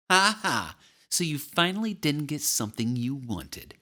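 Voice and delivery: high, taunting sing-out; gloating sister. A narrator's reading. Big sister to disappointed little brother, gloating taunt.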